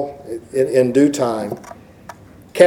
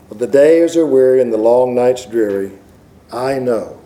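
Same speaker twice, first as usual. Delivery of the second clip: poem recitation; 3 semitones lower than usual. Acted. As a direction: read the hymn verse gently, like a prayer.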